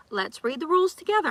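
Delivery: mock teacher. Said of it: "I feel like a middle school teacher".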